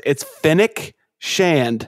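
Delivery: FENNEC drawn out slowly, no R after the F; correct pronunciation. Shown as a demonstration. Co-host corrects a friend's mispronounced Star Wars name, slow careful FENNEC. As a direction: say Fennec as FEN-ick, slow and deliberate. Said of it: "You're always putting R's in there".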